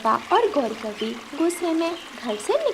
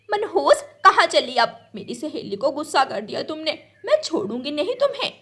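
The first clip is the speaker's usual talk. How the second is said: high, sharp scolding, fast at the end; angry scolding; 5 semitones higher than usual. Acted. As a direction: threaten the little bird as she leaves. Crow scolds fleeing little bird.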